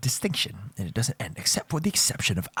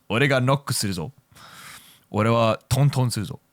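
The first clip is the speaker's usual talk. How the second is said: playful line; faster than usual. Pretend. Jokey Japanese version of quote.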